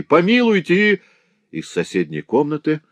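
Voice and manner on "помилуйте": high, loud, slow plea; desperate slow plea, much higher; begging. Acted. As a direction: draw out the cry for mercy. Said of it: "взмолился Грамотей".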